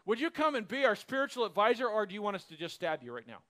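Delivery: sarcastic choice between job and stabbing; mock courtesy with a quick threat; mock polite threat. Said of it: "the silly nature of this".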